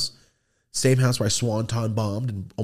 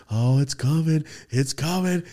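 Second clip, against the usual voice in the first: put-on rising kid-like anticipation; excited anticipation; 5 semitones higher than usual. Kid expecting a PlayStation for Christmas, excited anticipation. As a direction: build higher on the repeat. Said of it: "And I was so excited".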